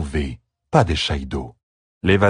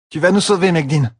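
much higher, eager cheer; rally her with hope; 11 semitones higher, 3 dB louder than usual. A narrator's reading. Captive cheering on servant. (encouragement vif et aigu)

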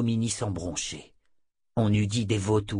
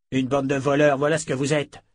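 shouting; 4 semitones higher, 4 dB louder than usual. Acted. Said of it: "cria Richard".

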